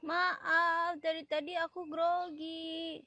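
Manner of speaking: quiet, hesitant and slowed; nervous apology. Acted. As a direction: confess nerves meekly. Apology, admits nerves.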